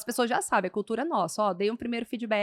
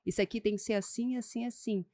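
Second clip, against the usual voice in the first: put-on quiet, controlled firmness with a child; firm, low-key parent; 2 semitones lower, 4 dB quieter than usual. Shown as a demonstration. Parent crouched to correct a child, low-key firm voice. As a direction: set a boundary without raising your voice. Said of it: "olha nos olhos da criança e fala firme".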